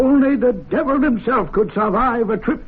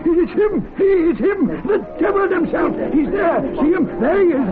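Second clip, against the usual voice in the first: excited shouting; 8 semitones higher than usual. Acted. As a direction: point and shout, half terrified, half thrilled. Club member sees devil in fire.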